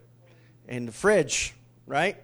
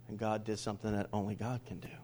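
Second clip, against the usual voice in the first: hushed whisper; 5 semitones lower, 8 dB quieter, faster than usual. Real, not acted. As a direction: whisper it, soft and reverent. Preacher hushes after still small voice.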